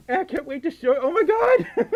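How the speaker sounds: high, loud excited gasp. Real, not acted. Reading an excited donation message.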